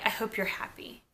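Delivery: whispered aside; whispering. Real, not acted. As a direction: whisper it under your breath.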